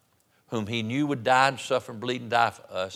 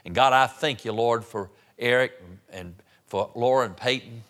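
earnest pastoral prayer in short running phrases; public prayer. Real, not acted. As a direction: lead the congregation in thankful prayer. I want to pray.

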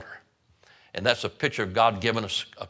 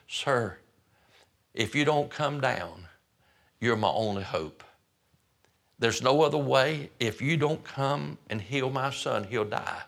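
humble plea. Retold or imitated. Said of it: "He's humbled himself now".

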